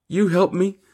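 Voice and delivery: put-on high, rising child's plea; childlike faith. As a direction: ask it like a trusting little child. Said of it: "with childlike faith".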